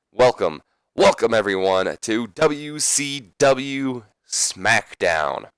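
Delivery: slow, drawn-out ring announcement; Shane McMahon announcing. Retold or imitated. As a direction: welcome the crowd like a showman. Shane McMahon voiced welcoming crowd.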